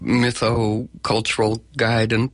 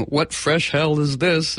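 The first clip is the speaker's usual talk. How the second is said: wry greeting; 4 semitones higher, slower than usual. Retold or imitated. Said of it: "answer her phone by going".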